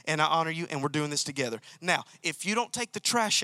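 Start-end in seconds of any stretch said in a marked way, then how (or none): 0.0-1.6 loving reassurance. Shown as a demonstration. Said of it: "in a package that says".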